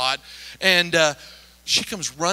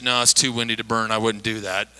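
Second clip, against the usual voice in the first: much lower, softer grave voice; father warning not to burn, low grave voice; dad's warning; 10 semitones lower, 4 dB quieter than usual. Retold or imitated. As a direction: warn like a solemn elder. Prophet dad warning.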